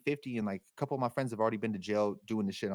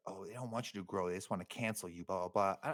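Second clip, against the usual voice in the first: mock dismissive mumble; 2 semitones lower, 6 dB quieter than usual. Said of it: "people on the internet to be like".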